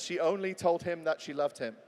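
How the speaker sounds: "only told" brought out as the key words; stress on ONLY TOLD. Shown as a demonstration. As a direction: lean on "only told", rest lighter. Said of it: "Put the word only in between".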